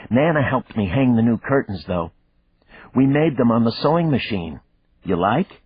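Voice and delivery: put-on an eager kid showing off; little girl chatter. A narrator's reading. Daughter telling her father about the curtains, eager child voice.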